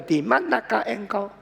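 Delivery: a mild flat robotic read; computer voice. Shown as a demonstration. Preacher shows God's words read like a computer, mildly robotic. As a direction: read like a machine, no feeling. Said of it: "Seperti suara komputer".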